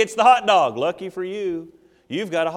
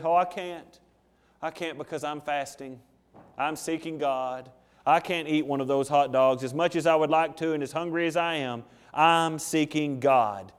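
pitiful Pharisee; 4 semitones lower, 5 dB quieter than usual. Acted. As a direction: sigh it out like a self-pitying faster. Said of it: "the Pharisee would go".

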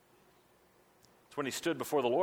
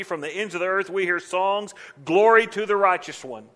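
loud, high proclamation of "from the ends of the earth"; proclaiming; 6 semitones higher, 8 dB louder than usual. Acted. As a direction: proclaim it to the back of the church. Preacher proclaiming Isaiah's song aloud.

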